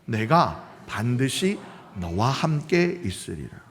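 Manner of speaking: slow, soft unison scripture reading; slow communal reading; congregation reading together. Shown as a demonstration. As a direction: read it aloud slowly together. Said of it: "함께 읽어요. 시작".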